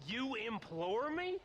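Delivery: incredulous sneer, rising on me; scornful echo. Acted. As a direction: throw his word back at him, stress on "me". Mocking John's fancy word.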